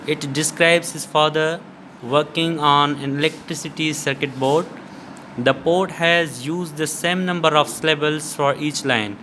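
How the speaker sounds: slow, deliberate textbook reading; reading aloud. Acted. Teacher reading the lesson text to students, slow and measured. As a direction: read it out slowly and carefully.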